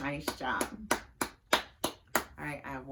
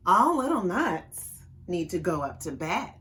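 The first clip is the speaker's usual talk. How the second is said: mama voice; 6 dB louder than usual. Acted. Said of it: "in her mama voice".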